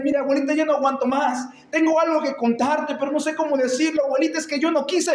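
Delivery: hurried, lightly acted confession; mock tearful pleading. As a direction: play a boy pleading through pretend tears. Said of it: "llorando él".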